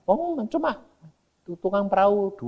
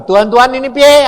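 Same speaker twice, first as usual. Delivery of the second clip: retold prayer; 6 semitones higher, 9 dB louder than usual. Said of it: "Aku bilang".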